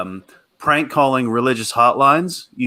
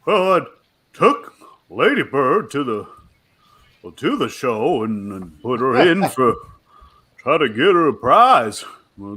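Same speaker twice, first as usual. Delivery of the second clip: Hank Hill as Walken. Pretend. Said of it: "Hank Hill voice, but in the Christopher Walken accent".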